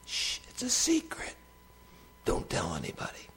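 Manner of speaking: mock secretive whisper; playful whisper. Teasing secret to the congregation.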